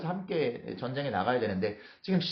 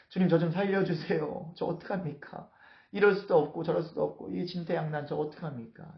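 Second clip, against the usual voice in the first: higher-pitched acted lament, fading mid-plea; sighing plea; 4 semitones higher than usual. David trapped and begging the Lord, sighing plea. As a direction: beg with a sigh, as if cornered. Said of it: "막 탄식하고 기도하면서".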